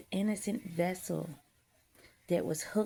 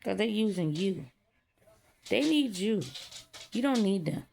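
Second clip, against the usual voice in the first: voicing God; 4 semitones higher than usual. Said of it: "God told me".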